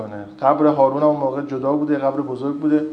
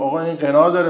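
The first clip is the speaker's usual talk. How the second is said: retold shout; 3 semitones higher, 5 dB louder than usual. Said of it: "یکی داد زد".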